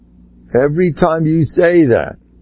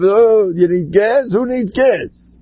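drawn-out, higher mock question; lightly hammed-up dismissive wonder; mock incredulity; 5 semitones higher, slower than usual. Joking about the plane flying without fuel, mock incredulous.

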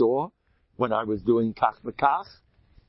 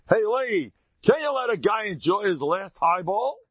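higher, amused retort; calm passenger; 8 semitones higher than usual. Retold or imitated. Calm passenger in turbulence scolding a hysterical lady. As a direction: mildly scold the twitching lady. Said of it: "And he says".

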